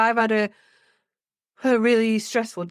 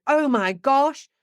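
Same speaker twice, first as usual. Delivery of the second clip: slow, higher sympathetic exclamation; matching their distress; 5 semitones higher, much slower than usual. Shown as a demonstration. A parent mirroring a stressed child's upset, slow and high. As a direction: stretch it out to meet their upset. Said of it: "use your voice into".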